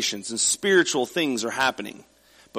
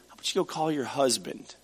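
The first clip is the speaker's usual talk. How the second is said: softer, gentle and loving; kind and compassionate; 6 dB quieter than usual. Shown as a demonstration. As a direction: ask it tenderly, like a kind invitation. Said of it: "very kind and compassionate and loving".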